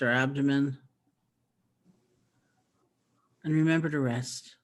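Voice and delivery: calm, even voice with long restful pauses; unhurried meditation teacher's voice; guided meditation. Acted. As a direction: gently guide listeners, leaving space between phrases.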